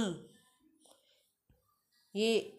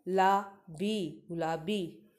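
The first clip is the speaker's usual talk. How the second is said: slow spelling out; 2 semitones lower, much slower than usual. Shown as a demonstration. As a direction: spell out गुलाबी slowly for the class. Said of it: "मेरे साथ दोहराएंगे". (गुलाबी के अक्षर धीरे-धीरे बोलना)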